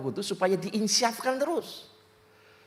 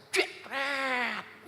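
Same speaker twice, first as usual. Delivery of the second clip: drawn-out scrape sound effect; imitated crash noise; 5 semitones higher, 5 dB quieter than usual. Telling congregation how a becak hit the car, imitated crash. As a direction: stretch out a mock collision noise.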